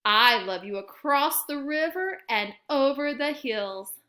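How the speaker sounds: big hare gently outdoing the little one. Acted.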